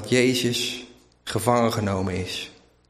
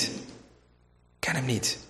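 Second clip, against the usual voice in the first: much softer and slow, almost to himself; a quiet, slowed-down repeat of the denial; hushed slow denial; 10 dB quieter, much slower than usual. Retold or imitated. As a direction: let the denial sink into a murmur. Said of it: "je zegt".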